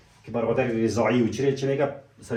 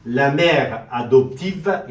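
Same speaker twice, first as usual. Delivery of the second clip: slow French demo; 6 dB louder, much slower than usual. Shown as a demonstration. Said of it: "سعی کنین".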